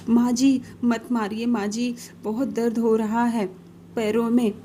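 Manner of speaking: crying out in pain, begging her to stop; a daughter-in-law begging through the hurt; pained pleading. Acted. Daughter-in-law pleads with her stick-wielding mother-in-law, pained begging. Beaten on legs again.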